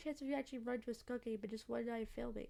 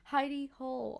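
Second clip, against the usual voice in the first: laughing; 5 dB louder than usual. Real, not acted.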